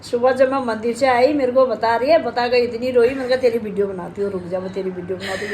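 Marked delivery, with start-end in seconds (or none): 3.4-5.5 teasing laugh. Real, not acted. Mom teasing crying daughter.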